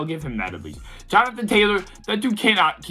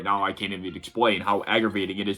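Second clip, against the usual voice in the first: worked up; 8 semitones lower, 6 dB quieter than usual. Real, not acted. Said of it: "I'm so worked up right now".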